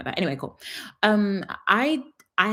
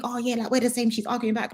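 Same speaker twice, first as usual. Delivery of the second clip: mock fool; 5 semitones higher than usual. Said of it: "they now think".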